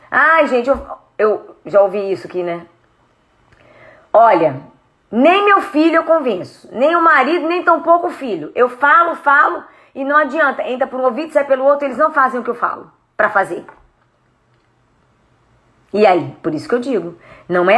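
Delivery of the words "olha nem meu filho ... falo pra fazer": exasperated parent. Retold or imitated. Voices exasperated parent about family.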